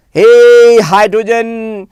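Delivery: loud drawn-out hey to a pretend friend; playful calling out. Teacher hailing hydrogen like a friend, playful calling out. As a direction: call out, stretching the name. Calls out to hydrogen in bonding skit.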